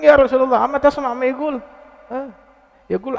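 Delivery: acted outrage, pitched well up; indignant protest. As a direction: protest as an upset wife to her husband. Aisyah protesting to the Prophet.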